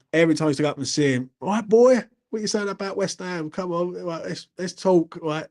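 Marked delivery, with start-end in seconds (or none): 1.4-5.2 higher-pitched Cockney old-boy impression; imitated Cockney granddad. Grandson imitating granddad wanting West Ham talk, Cockney accent. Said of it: "Cockney accent".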